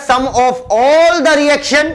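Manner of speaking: very slow, each word spelled out for notes; deliberate, slowed-down dictation of a definition. Shown as a demonstration. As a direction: dictate it slowly so students can write it down. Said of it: "dictating a definition slowly".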